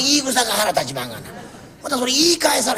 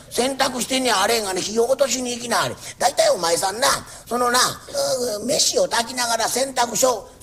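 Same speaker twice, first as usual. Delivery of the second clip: a lightly voiced fussy old landlord making his rounds; nagging landlord. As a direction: scold each tenant kindly but nonstop. Landlord scolds the tenant. (小言好きの家主が長屋を回って小言を言う口調)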